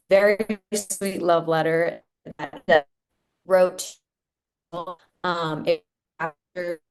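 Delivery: breaking-up video call audio; choppy connection, voice cutting out; glitchy call audio. Real, not acted. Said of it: "'cause you're breaking up a bit".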